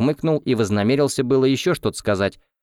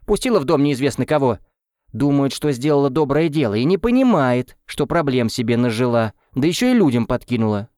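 a lightly raised, nagging matron's voice; grumbling older wife; 5 semitones higher than usual. Acted. Older wife nags her husband over the girl, lightly raised and grumbling.

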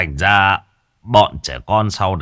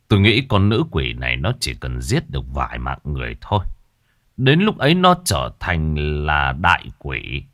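a lightly lowered master's grave warning; 4 semitones lower, 3 dB quieter than usual. Acted. Master warns the chief, low solemn voice.

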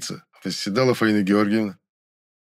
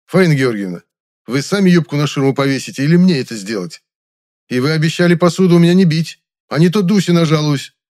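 loud and stern; 7 semitones higher, 7 dB louder than usual. A narrator's reading. Narrator scolding the actress.

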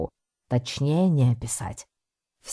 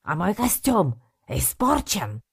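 higher, hammed-up Italian wail about the costume; Italian-accented lament; 7 semitones higher than usual. Balatelli bemoans his ruined suit, theatrical Italian accent. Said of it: "театральным жестом".

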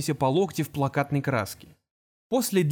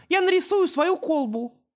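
put-on high child voice, delighted; excited little boy. Little boy excited to paint, high voice. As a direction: cheer it like a small kid. Boys excited about drawing.

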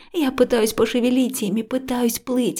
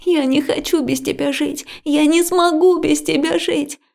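higher and louder, near a wail; desperate crying; 6 semitones higher, 4 dB louder than usual. A narrator's reading. Liya begging Max never to leave, crying out. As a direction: plead as if losing him.

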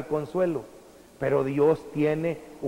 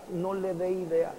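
"no le dé ideas" said again much softer, fading; quiet repetition; 6 dB quieter than usual. Shown as a demonstration. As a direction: drop to a hushed echo of the warning. Preacher repeats the warning. (repetir "no le dé ideas" en voz baja)

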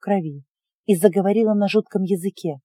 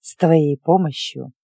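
sinister witch; 5 semitones lower than usual. Acted. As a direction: smile darkly, coaxing the child. Witch turns to girl, grinning.

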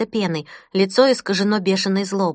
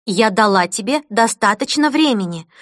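stern tone; 3 dB louder than usual. Acted. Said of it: "своим самым строгим тоном".

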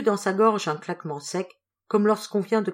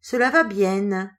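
slow, louder mock of the boss's accent; imitating the boss; 3 semitones higher, 6 dB louder, slower than usual. A narrator's reading. Sandrine answering the boss, mock imitation. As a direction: tease him by copying his voice. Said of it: "en imitant l'accent du patron".

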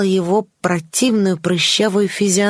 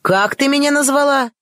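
angry yell; 7 semitones higher than usual. A narrator's reading. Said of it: "заорал он".

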